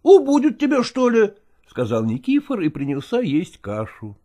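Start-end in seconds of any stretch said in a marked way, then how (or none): 0.0-1.3 teasing. Acted. Nikifor teasing the cook.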